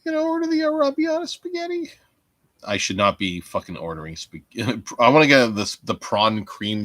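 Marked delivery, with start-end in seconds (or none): 0.0-1.9 high, fast silly voice; mock high voice; put-on high voice. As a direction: squeak out the order.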